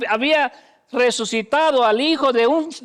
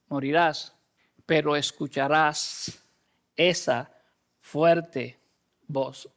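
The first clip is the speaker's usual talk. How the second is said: solemn quiet promise; 7 semitones lower, 4 dB quieter, slower than usual. Acted.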